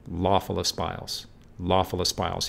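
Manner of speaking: "Lawful espials" with a strong stress on "Law" in "Lawful"; heavy first syllable. Shown as a demonstration. Lecturer showing the heavy first syllable in "Lawful espials". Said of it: "He comes down heavy on the first syllable".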